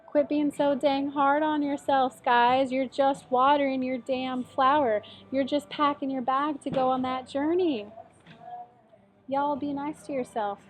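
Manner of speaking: slow, drawn-out Southern drawl; Southern accent. Pretend. Tarot reader tells Taurus to go easy, light Southern accent. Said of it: "I love the Southern accent".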